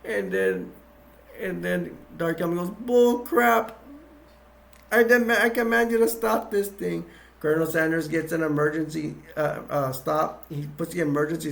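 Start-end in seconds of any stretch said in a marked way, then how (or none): 2.8-7.0 mock angry command. Dark Helmet commands stop.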